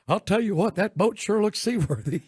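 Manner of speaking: a hint of a King of the Hill Texas drawl; lazy Texas drawl, lightly done; a buddy with a Texas drawl, lightly voiced. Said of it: "sound like King of the Hill".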